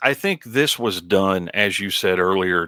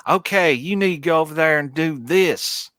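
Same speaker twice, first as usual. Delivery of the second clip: mock commanding, higher-pitched put-on voice; inauthentic officer's orders; 6 semitones higher than usual. Co-host mimicking the actress giving orders, unconvincing officer voice. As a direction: imitate an actress faking army authority. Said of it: "it wasn't authentic".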